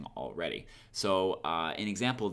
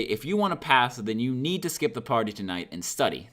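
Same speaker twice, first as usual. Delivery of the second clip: harsh command; 3 semitones higher, 3 dB louder than usual. Shown as a demonstration. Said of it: "that's really, really harsh".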